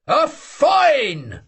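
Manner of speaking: high playful shout; mock shout. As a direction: impose a joking fine. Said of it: "shouted the old man".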